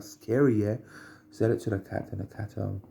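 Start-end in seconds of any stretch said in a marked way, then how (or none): 0.0-0.8 a toned-down re-enacted yelp; half-hearted mock scare, slightly raised pitch; milder retaliating cry. Retelling what was said to the cat, mild mock retaliation. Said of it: "I was like".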